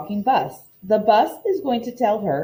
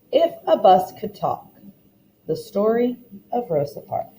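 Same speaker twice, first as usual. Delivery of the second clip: expressive read-aloud storytelling for a class; story narration. A narrator's reading. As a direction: read the picture book aloud to the children, lively. Teacher reads storybook aloud.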